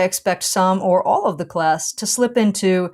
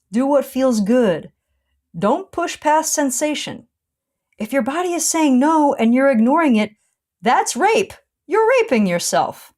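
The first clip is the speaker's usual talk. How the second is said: raised pitch, mildly sarcastic class reminders; sarcastic button-pushing; 5 semitones higher than usual. Retold or imitated. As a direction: needle the class lightly, pitched up a bit. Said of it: "sarcastically pushing everyone's buttons with lighthearted reminders".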